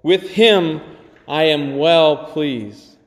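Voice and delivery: slow, measured heavenly voice; solemn, slow divine declaration. Acted. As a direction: give it slow weight, like God speaking. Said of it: "a voice from heaven said".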